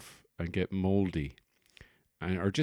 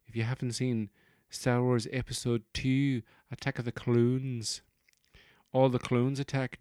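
lightly pitched-up actor voice; Ewan McGregor; 4 semitones higher than usual. Acted. Actor explains a meme, lightly voiced impression. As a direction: ramble on in the put-on voice. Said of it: "So Ewan McGregor was there".

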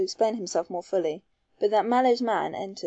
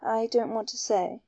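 ordinary delivery

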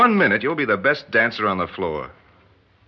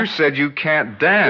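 laughing fondly; 4 semitones higher than usual. Acted. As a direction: chuckle through the line, amused. Laughing at her remark.

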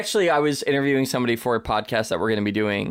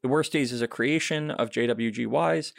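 low, softer podcast credits announcement; closing credits read; 3 semitones lower, 5 dB quieter than usual. Real, not acted. Host closing the podcast with cast and links, subdued credits read. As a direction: read the credits evenly and quietly over music.

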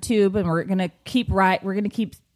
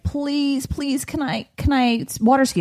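lightly voiced begging kid, higher pitch; pleading child; 4 semitones higher than usual. Mom imitating her youngest asking to water ski, lightly pleading. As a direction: plead a little like an eager youngster.

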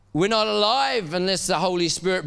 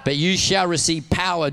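shout it with power; 3 dB louder than usual. Shown as a demonstration. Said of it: "Shout it at me like you got a bit of power".

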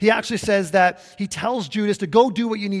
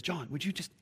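unvoiced whisper, leaning in close; 11 dB quieter than usual. Peter secretly whispering to John, a soft whisper. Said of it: "Peter leans into John".

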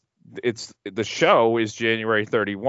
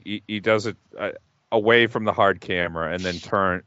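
normal talking voice

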